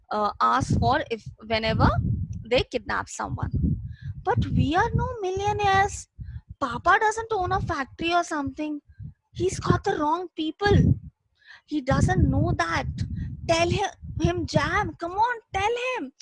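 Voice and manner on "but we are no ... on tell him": frightened begging. Acted. Frightened boy begs brother.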